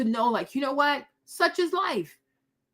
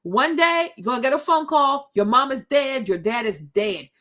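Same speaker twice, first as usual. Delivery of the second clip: normal talking voice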